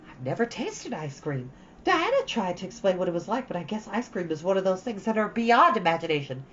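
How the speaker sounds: lightly voiced dreamy girl, rushing on; Anne, chattering eagerly. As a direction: gush to Marilla about her playhouse.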